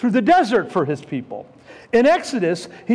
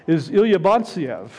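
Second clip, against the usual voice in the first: low imitation of a Russian accent; imitated Russian-accented English, pitched down; heavy Russian accent; 4 semitones lower than usual. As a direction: introduce yourself in a thick Russian accent. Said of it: "said in a heavy Russian accent".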